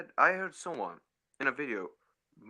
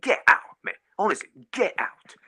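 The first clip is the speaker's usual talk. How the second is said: shouted dismissal; 4 semitones higher, 6 dB louder than usual. Real, not acted. Telling manager to leave.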